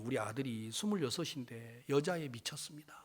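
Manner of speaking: hushed whisper, voice unvoiced; whispered confession. Father whispering his worry to the pastor before the meeting. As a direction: lean in and whisper it like a secret.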